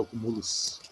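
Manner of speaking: "acumulos" as a-cu-MU-los; stress on MU. Shown as a demonstration. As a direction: hit MU in the made-up "acumulos". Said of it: "mas não existe". ("acumulos" com a tônica no MU)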